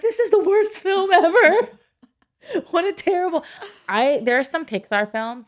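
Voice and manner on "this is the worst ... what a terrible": exasperated. Retold or imitated. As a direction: drag it out in disgust. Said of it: "and I was like".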